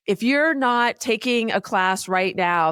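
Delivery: imitating pushy social media warnings, slightly slow; mock urgency. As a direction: press the warning with mild urgency. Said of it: "there's, like, a lot of urgency".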